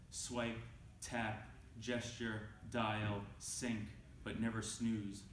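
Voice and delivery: measured, deliberate poem delivery with pauses between phrases; poetry reading. Acted. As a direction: read it as a poem, weighing each line. Reads next poem aloud.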